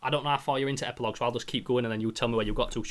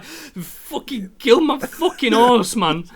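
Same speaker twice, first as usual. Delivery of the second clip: high, loud, very slow wail; mock wailing; 9 semitones higher, 8 dB louder, much slower than usual. Telling his girlfriend the horse died, hammed-up wail. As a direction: wail it like a heartbroken kid. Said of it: "I'm like".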